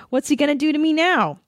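high, quick, hammed-up suspense; mock anticipation. Reading the heroine's thoughts before he acts, mock anticipation. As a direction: wonder aloud in a high, rushed voice.

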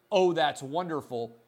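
clearly sarcastic response; mock-pleased, meaning the opposite. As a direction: feign delight at bad news. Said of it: "clearly sarcastic manner".

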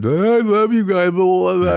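high, loud, drawn-out mock gushing; gushing bar pest. Woman at a bar cornering the couple, gushing mockingly. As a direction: imitate an overfriendly woman at a bar. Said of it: "and this woman".

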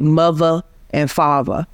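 "mother and father" with TH as V, "muvva and fahva"; DC pronunciation. Shown as a demonstration. Linguist demonstrating the DC V for TH. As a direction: swap the TH in "mother and father" for a V sound. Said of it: "the T H sound can be pronounced as a V sound".

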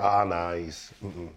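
low, fading mock dismissal; dismissive scoffing. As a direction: wave him off, sinking to a murmur. Imitating dismissive public.

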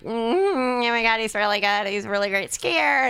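mock-gush like a smitten new girlfriend; adoring new girlfriend. Imagined younger girlfriend admiring a divorced dad, mock adoring gush. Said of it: "imagine, like, a thirty-two-year-old girl".

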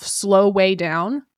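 very slow, drawn-out self-reminder; telling herself to slow down. Shown as a demonstration. Host coaching herself mid-episode, very slow self-talk. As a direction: stretch it out as if calming yourself. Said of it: "I'm telling myself".

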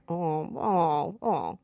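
low sighing Minion moan; depressed Minion mumble. Retold or imitated. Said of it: "They sound like that".

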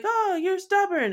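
high, slow mocking sneer; mock people calling her stubborn. Mocking people who call you stubborn, high and slow. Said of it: "then people are like".

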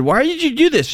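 lightly hammed-up disbelief; baffled question. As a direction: play the confused husband. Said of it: "And I said".

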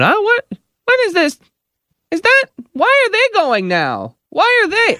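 high, fussy mock grumble; annoyed lady muttering. Woman in vaccine line grumbling to herself, high mock fuss. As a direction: play the impatient stranger huffing to herself. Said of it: "she's going".

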